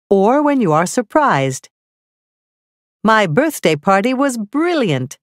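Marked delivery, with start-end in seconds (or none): 3.0-5.2 strong feeling. Shown as a demonstration. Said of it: "This sentence ends with an exclamation point".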